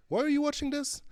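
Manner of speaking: high-pitched mock disbelief; jokingly taken aback; mock incredulous. Teasing an absent colleague watching.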